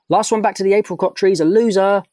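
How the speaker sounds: gleeful shouted dare; yelled. Acted. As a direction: yell the race challenge as you run off. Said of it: "yelled Bruno".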